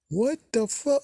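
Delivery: high, startled what the fuck; shocked outburst. Real, not acted. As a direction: squeal it in disbelief. Reacting to a recap twist.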